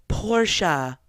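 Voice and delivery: flat robotic voice saying "Porsche"; Google voice. Retold or imitated. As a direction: mimic the Google voice reading "Porsche". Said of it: "in, like, the Google voice".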